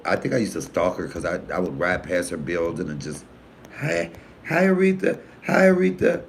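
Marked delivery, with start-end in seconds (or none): 3.8-6.2 high eager call to a passing star. Retold or imitated. Fan calling up to a singer's building, eager and high. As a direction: sing out a fan's hello, high.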